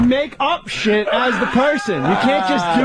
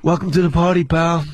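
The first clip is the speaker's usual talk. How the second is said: a hint of Bruce Willis, low; lightly voiced Bruce Willis; 4 semitones lower than usual. Comic quoting Bruce Willis, a light impression.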